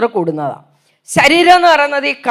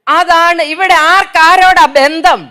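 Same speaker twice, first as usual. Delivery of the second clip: indignant; 3 semitones higher, 7 dB louder, slower than usual. Real, not acted. Indignant rhetorical question.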